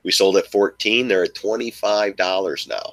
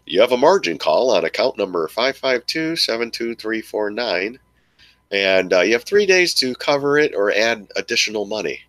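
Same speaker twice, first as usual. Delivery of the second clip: margin call notice; 4 semitones higher than usual. Retold or imitated. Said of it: "you get the, the email".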